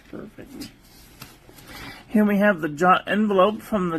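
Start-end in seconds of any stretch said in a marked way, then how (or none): 0.1-0.7 soft breathy whisper of approval; whispered verdict. Real, not acted. Reviewer whispering her verdict on the paper, whispered.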